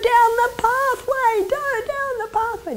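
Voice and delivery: high, wheedling urging; coaxing inner voice of feelings; voice of the body's urges. Pretend. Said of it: "your body will be screaming at you".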